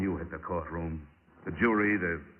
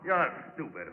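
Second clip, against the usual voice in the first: mocking jab; 8 semitones higher than usual. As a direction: rub his nose in it. Detective mocks the killer.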